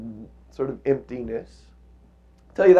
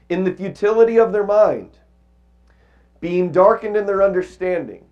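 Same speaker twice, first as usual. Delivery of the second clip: measured, raised reading of the verses; scripture reading. Acted. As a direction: read the passage with weight. Reads scripture passage aloud.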